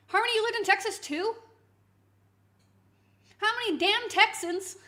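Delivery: real surprise at yet another Texan; surprised outburst. Real, not acted. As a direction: blurt it out, amazed at another one.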